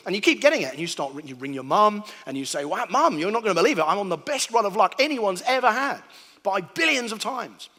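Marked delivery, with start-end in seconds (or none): 2.6-7.7 excited. Retold or imitated. Caller telling mum about his luck.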